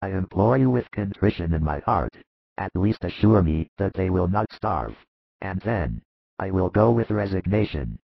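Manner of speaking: low-pitched, penitent begging; mildly tearful sick man; understated sobbing plea. A narrator's reading. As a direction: implore in a deep voice with a touch of tears. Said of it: "At last it is heard among sobs".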